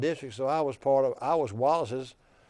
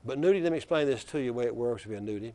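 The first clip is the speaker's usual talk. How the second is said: put-on Black Belt accent; 5 dB louder than usual. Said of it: "he says in that deep black belt accent".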